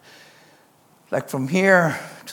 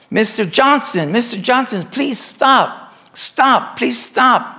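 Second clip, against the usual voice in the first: raised, high pleading calls; urgent calling out; 7 semitones higher, 5 dB louder, slower than usual. Acted. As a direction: nurses urgently calling a patient to stop. Nurses calling after fleeing patient.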